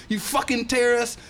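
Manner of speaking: put-on high furious yelling old man; imitating the old man cussing him out, high and furious; angry old man. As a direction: scream it like an enraged stranger. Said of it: "He's like".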